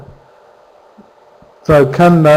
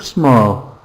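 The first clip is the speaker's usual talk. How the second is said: small as unstressed; 5 semitones lower than usual. Shown as a demonstration. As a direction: let small sink down low. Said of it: "Stress on the first".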